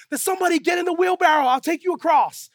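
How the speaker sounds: fast, high, loud mock challenge; showman's call. Tightrope walker challenges crowd to get in wheelbarrow, calling loudly. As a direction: call out for a volunteer. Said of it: "Then he said".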